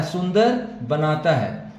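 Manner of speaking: सुंदर बनाता है said slowly, word by word; slow teacher's repeat of सुंदर बनाता है; slow, careful repeat. Shown as a demonstration. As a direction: spell out सुंदर बनाता है slowly so students catch it.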